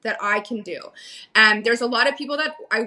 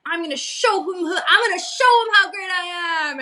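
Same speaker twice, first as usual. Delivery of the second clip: much higher, brash voice of her younger self; pitched-up cocky boast; eager, cocky self-quote; 8 semitones higher than usual. Retold or imitated. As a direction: play your ambitious younger self, all fired up. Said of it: "and, like".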